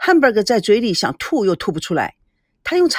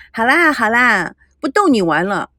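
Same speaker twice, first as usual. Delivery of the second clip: coaxing; slower than usual. Acted. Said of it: "赶紧讨好".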